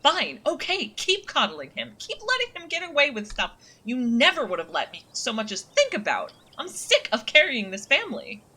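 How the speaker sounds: yelling back in frustration; angry shouting. Acted. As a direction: shout it over your shoulder, fed up. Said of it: "shouting behind her".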